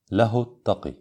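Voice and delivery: "له" short, joined straight into "التقي"; unlengthened pronoun ha. Shown as a demonstration. Teacher models the no-madd rule, "له" short before "التقي". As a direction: say lahut-taqi without stretching the hu. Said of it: "ولا تمد هاء الضمير".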